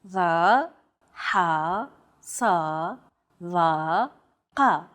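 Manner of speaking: Va, ha, sa, va, qa from deep within the throat; tense, constricted-throat consonants on Va, ha, sa, va, qa; emphatic consonants. Shown as a demonstration. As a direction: tighten the throat for each of Va, ha, sa, va, qa. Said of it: "they're pronounced deep within the throat".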